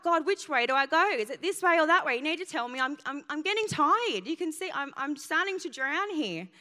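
half-drowning plea, voice up high; desperate plea. Retold or imitated. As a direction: call out tired and pleading. Pleading with God while drowning.

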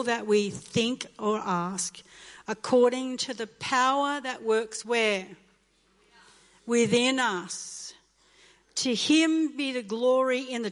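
slow, weighty scripture read with each phrase leaned on; lingering sermon reading that builds on every phrase; preached scripture. Acted. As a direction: proclaim the verse slowly to the church.

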